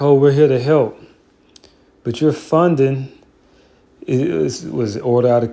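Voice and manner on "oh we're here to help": mock fake helpfulness. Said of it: "act like".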